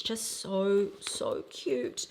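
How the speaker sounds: breathy whisper of delight; whispered gush. Real, not acted. Admiring the bag's zipper, whispered adoration. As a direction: whisper it adoringly. Gushing over the bag.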